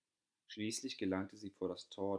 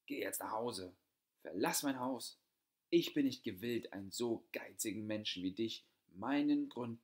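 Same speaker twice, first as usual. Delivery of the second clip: put-on loud, rising furious older sister; angry shouting; 3 semitones higher, 5 dB louder than usual. A narrator's reading. Older sister driving her sister out of the house, shouting angrily. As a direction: throw her out, louder and higher to the end. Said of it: "schrie ihre Schwester weiter".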